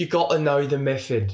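imitated British accent, th turned to f; Christian Bale's accent. Shown as a demonstration. Key phrase to get into the accent, imitated British. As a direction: quote the film in a put-on British accent. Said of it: "I say that and I can get into it".

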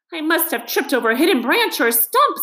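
miserable. A narrator's reading. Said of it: "said the mole miserably".

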